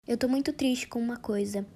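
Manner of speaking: whispering a sad confession; whispered. Acted. Friend whispering a sad confession before a dark joke. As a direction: breathe it out in a whisper.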